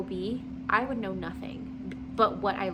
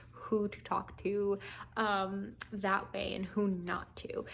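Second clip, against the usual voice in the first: slow hushed whisper, almost secret; whispered aside; slower than usual. Real, not acted. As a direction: let the last words drop to a whisper. Lesson learned, hushed aside.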